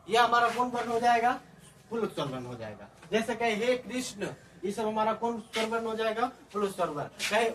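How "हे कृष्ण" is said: हे कृष्ण with हे held long; prolonged vowel. Shown as a demonstration. Teacher giving a प्लुत example, हे in हे कृष्ण stretched. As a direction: draw out the vowel of हे before कृष्ण. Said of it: "तीन मात्रा का समय लगता है".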